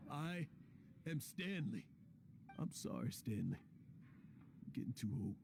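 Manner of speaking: put-on slurring drunk old man. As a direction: speak like you've had too many drinks. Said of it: "you're drunk again".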